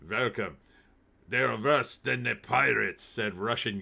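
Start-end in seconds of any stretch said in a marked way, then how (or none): 0.1-0.6 put-on Russian accent. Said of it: "I gotta do it in a Russian accent". 1.3-3.0 "worse" said as "vorse", "than" as "tan", mildly Russian; hint of a Russian accent, "worse" as "vorse". Streamer redoing the yachtsman's quote to chat in a light Russian accent. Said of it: "I gotta do it in a Russian accent".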